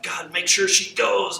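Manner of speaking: slow, drawn-out mock plea to God; retold pleading prayer. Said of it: "I'm praying all night".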